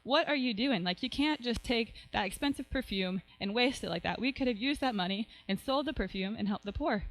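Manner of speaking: mildly acted indignation; understated outrage, pitch jumping at the start; annoyed, outraged. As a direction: scold with a touch of annoyance. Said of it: "He gets really annoyed".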